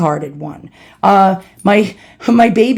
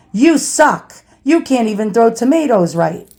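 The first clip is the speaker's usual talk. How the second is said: mock angry mother; 3 semitones higher than usual. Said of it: "my mother was pissed off".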